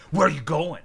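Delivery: a hint of a menacing haunted-house actor; scary felon. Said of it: "felon pops up and says".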